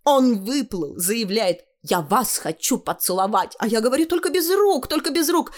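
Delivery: put-on girlish retelling, climbing high at the end; animated young girl's story; boasting girl. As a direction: act out the suitor, then a high prim rebuff. Tanya boasts of her admirer.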